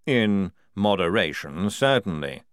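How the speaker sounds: slow, measured qualification; measured general. Acted. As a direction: concede it slowly.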